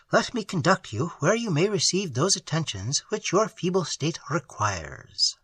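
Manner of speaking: a quiet, soothing promise of safety; gentle reassurance. Acted. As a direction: comfort a frightened captive softly. Rescuer comforting the prisoner.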